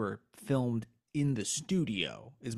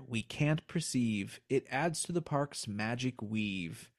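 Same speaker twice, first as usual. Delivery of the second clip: poem reading. Acted. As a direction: read the verses with a bit of ceremony. Reads the second poem.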